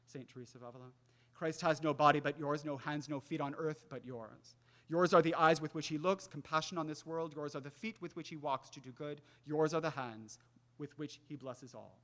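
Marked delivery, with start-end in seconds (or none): 1.3-12.0 recited prayer. Acted. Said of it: "from the great Carmelite mystic".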